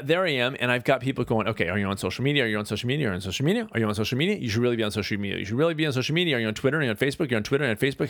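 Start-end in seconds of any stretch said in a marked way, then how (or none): 1.5-8.1 rapid-fire, run-together nagging questions; fast, repetitive hounding; mock pestering. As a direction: imitate a crowd badgering without a pause. Imitating people nagging with repeated questions.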